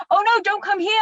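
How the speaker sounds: retold yell. Warning someone walking towards her in the field, mock yelling. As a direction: call out a warning, re-enacted at moderate volume. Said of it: "And I yelled like that".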